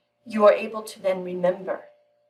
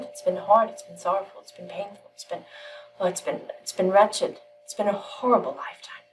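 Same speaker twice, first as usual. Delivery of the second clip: complaint fading down to a breathy whisper; weary lament. Acted. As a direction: let the misery sink until only a whisper is left. Weary man complains to master.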